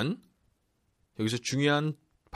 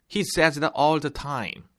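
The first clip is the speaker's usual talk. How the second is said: higher, slow, expressive dialogue line; with feeling; 5 semitones higher, 4 dB louder, much slower than usual. Shown as a demonstration. Teacher reading a dialogue as real conversation, with feeling. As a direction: act it like real conversation, pitch lifted, slowly. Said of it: "실제 대화처럼 감정을 살리시면서".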